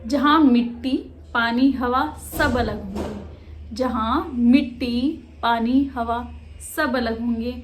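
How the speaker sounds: deliberate, phrase-by-phrase verse; poetry recitation. Acted. Reads the poem aloud.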